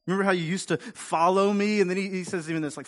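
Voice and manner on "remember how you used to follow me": voicing God.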